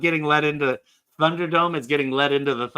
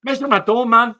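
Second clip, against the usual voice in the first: shouted catchphrase; 7 semitones higher, 7 dB louder than usual. Pretend.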